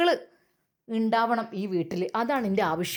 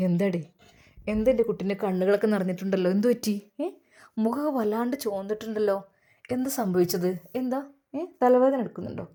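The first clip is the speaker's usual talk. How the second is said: tender concern; 3 semitones lower, faster than usual. Acted. Husband gently asks his wife.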